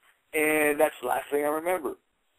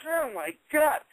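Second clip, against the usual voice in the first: higher, stunned exclamation; floored by the cowardice; amazed disbelief; 10 semitones higher, slower than usual. Retold or imitated. The speaker amazed that Knobbs backed down, higher. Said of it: "I was like".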